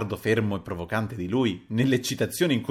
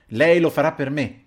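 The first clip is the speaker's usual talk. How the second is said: louder, higher forceful order; energetic shout; 6 semitones higher, 7 dB louder than usual. A narrator's reading. Narrator pressing Anselmo into service, shouting energetically. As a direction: insist loudly, brooking no argument. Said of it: "gli gridai energicamente".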